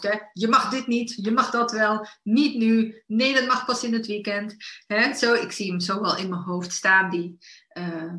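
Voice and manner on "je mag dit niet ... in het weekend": food police voice. Retold or imitated. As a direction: lightly play the strict inner rule-keeper. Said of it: "de voedselpolitie in je hoofd".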